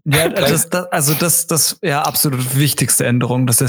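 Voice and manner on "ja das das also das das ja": holding back laughter; words breaking on suppressed giggles; stifled giggles. Real, not acted. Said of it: "Hör auf zu lachen".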